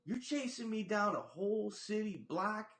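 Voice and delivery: a touch of outrage; incredulous. Retold or imitated. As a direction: spell out the absurdity. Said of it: "I'm like".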